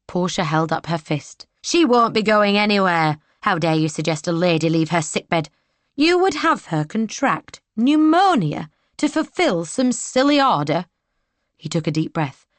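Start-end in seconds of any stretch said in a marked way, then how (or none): 1.6-10.9 raised, scolding maid; indignant maid. Acted. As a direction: tell him off fiercely. Portia scolds soldier with fist.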